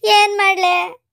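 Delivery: slow, helpless lament; fearful wail. Acted. Frightened woman asking Shantakka what to do, fearful wail. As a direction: draw the words out in dread. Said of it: "ಕೆಟ್ಟ ಹೆದರಿಕೆ ಬರಾಕತ್ತೈತೆ".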